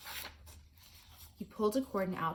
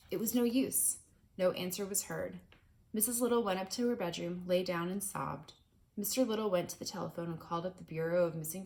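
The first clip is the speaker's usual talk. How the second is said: reading a chapter book aloud to a class; steady, clear read-aloud narration; story narration; 3 dB louder than usual. A narrator's reading. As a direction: tell it like a storybook to listening kids. Reads the book to children.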